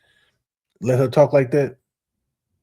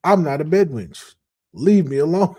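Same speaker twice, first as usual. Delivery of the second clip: higher, slow and huffy, lightly voiced; a hint of an offended sister shooing him off; mock indignant woman; 5 semitones higher, 4 dB louder than usual. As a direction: play her as fed up and brushing him off. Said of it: "this is what she said without saying it".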